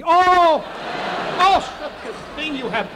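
hammed-up shock at strong vodka; mock vodka gasp. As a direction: act like the vodka burns your throat.

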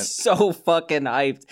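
slow drawn-out hype; mock hyped. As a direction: stretch it out, overexcited. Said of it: "I can't contain myself".

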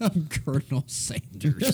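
lightly voiced Southern Colonel Sanders; Colonel Sanders impression. Host announcing the promo target, laughing Colonel Sanders impression. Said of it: "My Colonel Sanders is probably".

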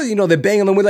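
loud, high excited narration; hammed-up frantic report; worked-up retelling. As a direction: shout over the commotion. Acting out mob at car.

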